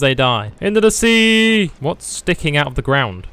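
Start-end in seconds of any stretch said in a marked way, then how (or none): 0.6-1.7 gleeful cry. Real, not acted. Enemies falling off ship.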